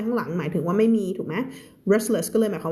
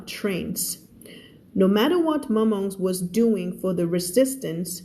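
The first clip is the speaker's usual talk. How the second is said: slow, careful story reading for learners; measured teacher's narration; slow read-aloud; much slower than usual. Acted. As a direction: read the story word by word, clearly.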